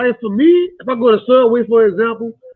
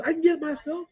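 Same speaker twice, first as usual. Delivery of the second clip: higher, curt refusal; mock snapback; 7 semitones higher than usual. Woman at the door brushes off a man holding it, curtly. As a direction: brush him off, lightly mocked. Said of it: "snapback I get trying to be a gentleman".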